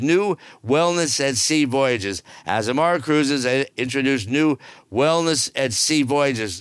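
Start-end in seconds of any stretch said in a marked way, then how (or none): 2.5-6.6 bored reread. Shown as a demonstration. Host rereads the wellness cruise news, mock bored. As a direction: drag it out like it bores you. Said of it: "Excuse me while I yawn".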